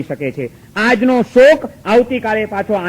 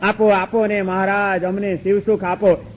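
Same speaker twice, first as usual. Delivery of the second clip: slow, soft mock pleading; mock devotee softly begging for bliss; 4 dB quieter than usual. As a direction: beg the guru, drawn out and hushed. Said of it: "મોક્ષ જોઈએ છે ને તમને બધાને તો?".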